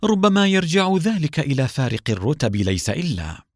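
mock-innocent, crafty tease; sly sarcasm. A narrator's reading. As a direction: needle her slyly, pitch lifted. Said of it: "بلهجة ساخرة ماكرة".

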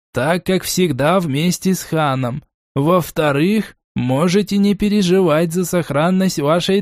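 slow, friendly professor tone; character voice. Acted. Герман explaining to envoy.

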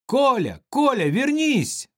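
put-on high, loud call after the boy. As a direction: shout after a child walking off. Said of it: "закричала рыжая".

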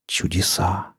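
very soft, awed whisper; hushed amazement. A narrator's reading. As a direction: breathe it out in wonder. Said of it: "прошептала Настя".

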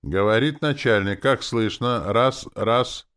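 a boss droning into the intercom; nasal mic check. A narrator's reading. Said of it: "гнусаво произнёс".

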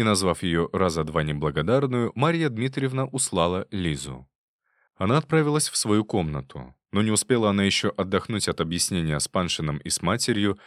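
plain reading voice

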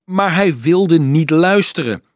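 high, loud desperate protest; crying out. A narrator's reading. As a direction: pour it out as if at breaking point. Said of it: "riep de monnik".

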